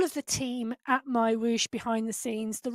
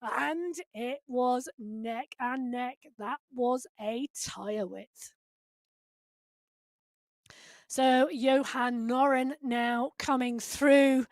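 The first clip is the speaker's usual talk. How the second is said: breathless, quiet after the sprint call; winded, catching breath between words; 4 dB quieter, slower than usual. Real, not acted. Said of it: "Oh, I'm out of breath".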